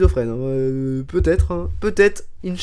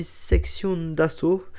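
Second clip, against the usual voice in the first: German accent; 4 dB quieter, much slower than usual. Real, not acted. Host introducing the band, accidental German accent. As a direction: slip into a slight German accent. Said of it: "pourquoi je dis ça avec l'accent allemand".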